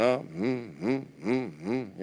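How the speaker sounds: soft straining hums up a mountain; straining groan. Retold or imitated. Driver straining up mountain roads, soft strained hums. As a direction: hum like the car is struggling uphill. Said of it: "'Cause you're going".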